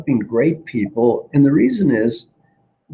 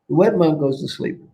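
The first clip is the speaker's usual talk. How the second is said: ordinary talk, nothing marked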